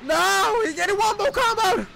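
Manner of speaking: high loud disbelief; excited shout. Real, not acted. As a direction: yell at the screen. Reacting to the fight.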